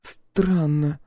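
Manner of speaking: high-pitched female character voice; a high, musing voice, out of the blue; Clementine. A narrator's reading. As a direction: speak up high, as if off on your own thought. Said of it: "совершенно невпопад произнесла Клементина".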